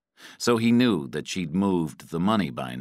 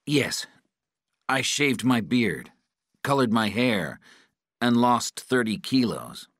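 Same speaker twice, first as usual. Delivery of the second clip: higher-pitched, anxious answer; captive's voice; 6 semitones higher than usual. A narrator's reading. Patrick answers his interrogator, anxious captive's voice.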